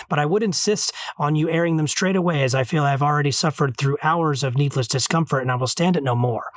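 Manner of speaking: brisk, wordy read-aloud; formal speech read aloud. A narrator's reading. Reading the girl's speech to a smelly alien, brisk formal delivery. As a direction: read an ornate complaint briskly from the page.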